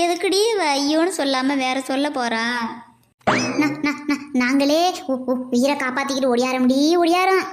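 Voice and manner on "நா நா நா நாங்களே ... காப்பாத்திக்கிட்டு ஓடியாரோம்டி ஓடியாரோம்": stuttering, breathless rush; frightened stammer. Acted. Niece stammers in fright after running from a tiger. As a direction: stumble on the words in fright.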